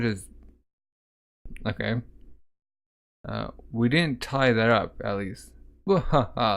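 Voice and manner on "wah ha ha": reads the laugh out as a mock wah-ha-ha; a put-on villain laugh, not a real one; hammed-up laugh.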